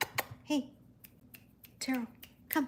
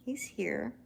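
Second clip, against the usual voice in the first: whisper; 8 dB quieter than usual. Real, not acted. Cat finally arrives.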